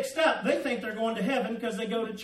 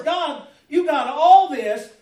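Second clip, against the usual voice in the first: loud amazed; 6 dB louder than usual. Retold or imitated. David marvelling at God under the stars, loud awe. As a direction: burst out in awe at God's care. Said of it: "In other words".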